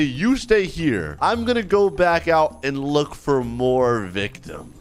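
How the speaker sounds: slow, drawn-out mock menace; unhurried, hammed-up kidnapper; villain in character. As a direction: announce the plan like a pretend villain. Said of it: "A little too into character here".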